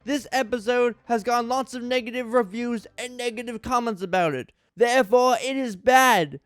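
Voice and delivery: mock-earnest read of a ranting fan review; a dramatic reading of someone else's angry episode review. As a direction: perform it straight-faced, like an outraged reviewer. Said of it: "A dramatic reading of a top ten worst Thomas".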